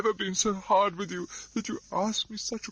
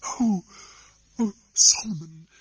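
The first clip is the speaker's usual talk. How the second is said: much higher, loud and tremulous; joyful cry; 12 semitones higher, 3 dB louder than usual. Acted. Miss Pross greets her lost brother, crying out. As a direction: cry out in astonished joy. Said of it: "cried Miss Pross".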